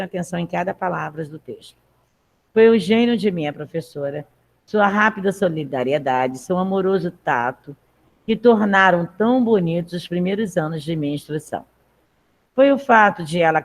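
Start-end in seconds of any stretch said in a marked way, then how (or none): 2.5-11.6 measured text read aloud to the class. Acted. Teacher reading the text aloud to her class, measured. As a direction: read the passage clearly for students.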